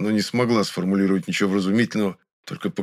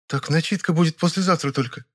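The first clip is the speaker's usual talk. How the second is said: raised, puzzled female voice; surprised; 9 semitones higher than usual. A narrator's reading. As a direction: question the plan, surprised. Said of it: "удивилась она".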